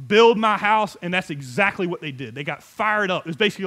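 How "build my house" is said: forceful command. Retold or imitated. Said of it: "He said".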